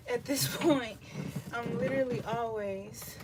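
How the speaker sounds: amused laugh into the words; chuckling, slightly breathless from pregnancy. Real, not acted. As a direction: laugh through admitting it. Laughing about being breathless.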